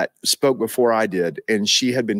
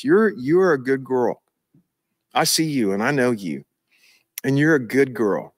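voice of the Father. Shown as a demonstration. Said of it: "that's the voice of the Father towards them".

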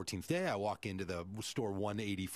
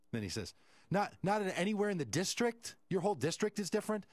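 incredulous; 5 semitones higher than usual. Retold or imitated. Manager incredulous on the phone.

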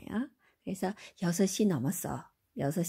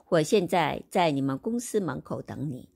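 group 我现在在你们公司门口等你 into meaning chunks; phrased by meaning; much slower than usual. Shown as a demonstration. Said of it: "뜻대로 이렇게 모아가지고".

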